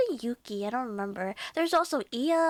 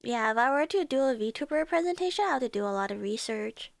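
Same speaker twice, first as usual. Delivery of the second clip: congested; faster than usual. Real, not acted. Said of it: "Oh, I'm so congested".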